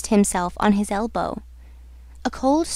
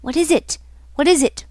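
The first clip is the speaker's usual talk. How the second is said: higher, urgent pleading question; imploring; 5 semitones higher than usual. Acted. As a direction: implore her to tell you. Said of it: "Raoul implored".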